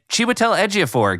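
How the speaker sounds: lightly acted awards-style reading; mock name announcement. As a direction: announce the tricky name with care. Acting out careful name announcement.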